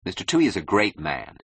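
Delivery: understated indignation; mildly stung protest; angry defence. Acted. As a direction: insist with a touch of anger. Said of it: "he said angrily".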